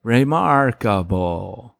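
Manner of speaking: slow, drawn-out catchphrase; lightly voiced kid savoring the word; imitating TV kid. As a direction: stretch it into a soundbite. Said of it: "there's this one kid".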